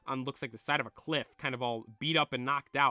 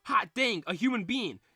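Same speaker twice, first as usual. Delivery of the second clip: higher, louder country-slang character voice; folksy slang-talking Bill; 7 semitones higher, 4 dB louder than usual. Acted. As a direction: holler like an excited folksy fella. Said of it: "he's talking with this slang".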